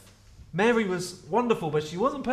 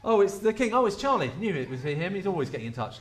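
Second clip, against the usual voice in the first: mock blasé; faster than usual. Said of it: "This is not someone going".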